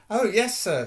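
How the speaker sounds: high, eager elf squeak; earnest house elf. Acted. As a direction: answer eagerly, wanting to please. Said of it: "said Dobby earnestly".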